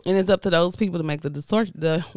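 talking around ice in mouth; words muffled by ice. Real, not acted. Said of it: "I got ice in my mouth".

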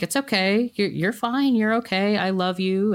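lightly voiced mother brushing the hurt aside; soothing mother. Mother soothing son, retold.

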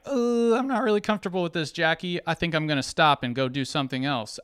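mock-timid objection; hypothetical whiny protest. Me imagining telling Jackie I'm uncomfortable, lightly whiny. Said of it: "instead of being like".

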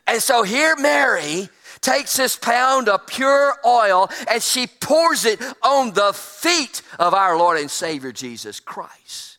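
slow, swelling preacher cadence; sermon build. Acted. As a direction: preach it, stretching the words. Preaching the anointing.

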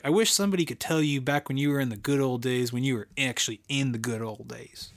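put-on lightly done Southern accent, quoting Andy Bernard. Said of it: "I said it with a Southern accent".

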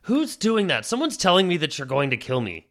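high-pitched, flustered questioning; alarmed boyfriend. Acted. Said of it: "Randall's like".

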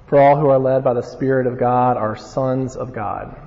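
measured Bible reading; scripture reading. Acted. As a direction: read the verses with weight. Reads scripture passage aloud.

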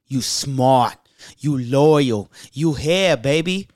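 lightly put-on, punchy short phrases; a hint of impression, each short phrase set apart; a hype mogul. Thanking first-time listeners, lightly imitated hype mogul. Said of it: "like a hype mogul".

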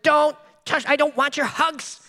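put-on high, slow pouting little-kid voice; whiny toddler. Pastor imitating his son refusing his hug, high pouting whine. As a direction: drag it out like a sulking toddler. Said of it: "You ever have a kid say that?".

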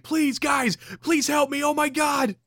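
high desperate pleading cry; pleading trapped Joe. Retold or imitated. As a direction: beg for help, high and frantic. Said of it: "He's like".

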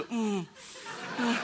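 smaller, restrained closed-mouth hum; toned-back stifled cheer. Retold or imitated. Husband avoiding scaring wife, toned-back hum. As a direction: squeeze the excitement down to a murmur. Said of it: "tone it back to".

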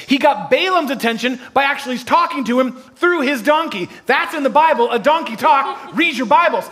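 high-pitched, building sermon delivery; rousing preacher in full flow; impassioned preaching. Real, not acted. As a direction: preach it up to the congregation. Preaches building examples at full force.

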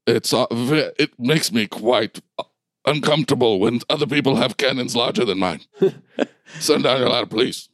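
lightly voiced fussy commander, halting delivery; giant bulldog leader. Bulldog asks to board the ship, lightly fussy commander.

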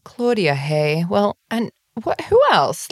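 teasing husband. Retold or imitated. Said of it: "He was like".

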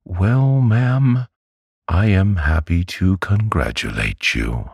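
high-pitched, timidly polite doctor; mild little man, voice pitched well up; meek. A narrator's reading. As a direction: offer congratulations meekly in a high voice. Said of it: "in his meekest manner".

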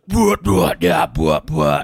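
growled emo screaming bwah; mock scream. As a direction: scream it like a hardcore vocalist. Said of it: "someone else goes".

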